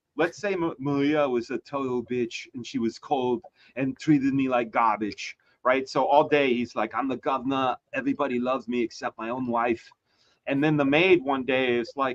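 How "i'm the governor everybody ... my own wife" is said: put-on Austrian-accented voice. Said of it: "He says it just like that".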